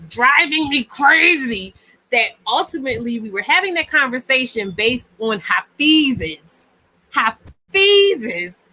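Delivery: real rising exasperation; worked-up near-yelling. Real, not acted. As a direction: get carried away, punching out words in frustration. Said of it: "I'm sorry if I'm yelling".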